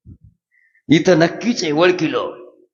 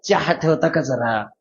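polite city request; 4 semitones lower, 3 dB quieter than usual. Retold or imitated.

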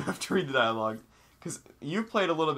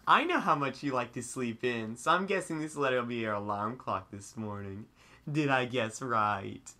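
flirtatious voice; slower than usual. Acted. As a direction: coo it like a flirty friend. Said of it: "like, a flirtatious voice".

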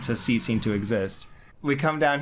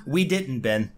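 dismissive. Retold or imitated. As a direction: parody Reed's curt dismissal. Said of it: "He just totally just".

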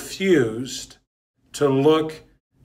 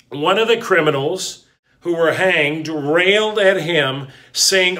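scripture reading. Acted. Reads scripture aloud.

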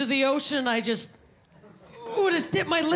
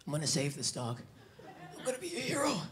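much lower and softer, mock heroic vow; low, quiet, self-serious promise to save the dog; a hint of action-hero bravado; hero resolve; 9 semitones lower, 11 dB quieter, faster than usual. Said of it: "I'm like".

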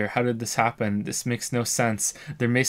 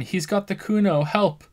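joining the shouting; 8 semitones higher than usual. Acted. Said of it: "The boy joins in".

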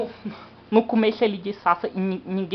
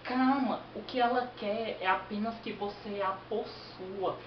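calm reassuring; 3 semitones higher, 5 dB quieter than usual. Acted. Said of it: "o cara compreensivo".

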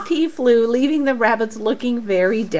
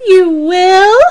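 surprised; 7 semitones higher, 8 dB louder than usual. Acted. Katy surprised by offer.

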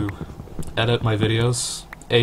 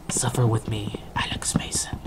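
whispered movie line. Pretend. A Call of Duty reference.

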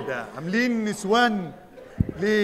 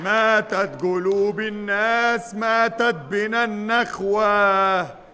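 mock preacher; 3 semitones higher, 3 dB louder, slower than usual. Preachy stranger scolds disguised men.

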